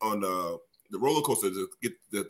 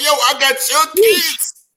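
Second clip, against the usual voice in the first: much higher and louder, slow, laughing indignant shout; laughing outraged yell; 11 dB louder, much slower than usual. Retold or imitated. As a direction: yell it in laughing disbelief at your sister. Retelling protest to his sister.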